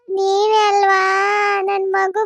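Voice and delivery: the dead mother blaming the nurse; menacing ghost drawing out each word; vengeful ghost. Acted.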